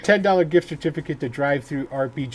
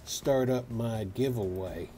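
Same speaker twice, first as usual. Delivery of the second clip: put-on cowboy accent; 2 semitones lower than usual. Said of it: "doing this in the accent".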